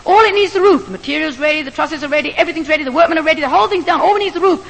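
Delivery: half-shouting at the surprised roofer; mild retold shouting. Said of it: "being shouted at by a white woman".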